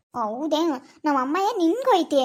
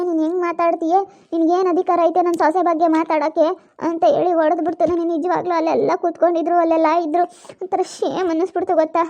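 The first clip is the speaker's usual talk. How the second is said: upset loud complaint; 5 dB louder than usual. Acted. Upset girl retells the slap.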